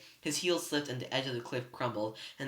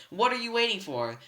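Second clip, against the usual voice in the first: impatient shout; 9 semitones higher, 5 dB louder than usual. A narrator's reading. Clarice urging the kill.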